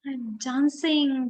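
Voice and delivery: high, excited cry of joy; a giraffe overjoyed to be dancing; joyful cry. Acted. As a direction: burst out in delight. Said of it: "Gerald cried".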